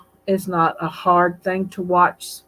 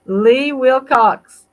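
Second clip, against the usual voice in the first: delighted greeting; 5 semitones higher, 8 dB louder, much slower than usual. Real, not acted. Greeting a viewer on live stream.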